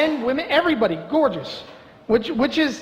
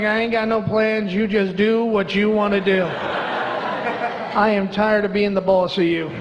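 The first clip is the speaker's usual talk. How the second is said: lazy to his leg; slower than usual. Retold or imitated. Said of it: "I'm there like".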